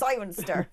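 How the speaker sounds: "Cirencester" said naively as a tourist would; mock a tourist reading "Cirencester"; tourist mispronunciation. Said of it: "you can always tell the tourist".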